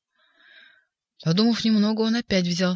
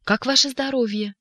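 rattling Koroviev voice; 6 semitones higher than usual. A narrator's reading. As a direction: gush with oily delight. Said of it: "дребезжащим голосом".

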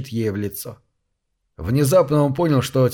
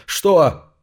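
испуганное что; 6 semitones higher, 4 dB louder than usual. Acted. Испуг, узнал взгляд.

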